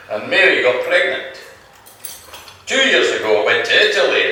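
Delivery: lightly put-on Irish lilt; Irish accent. Paddy recounts his holidays to Mick, light Irish accent. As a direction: tell it with a touch of Irish accent. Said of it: "That was a good Irish accent".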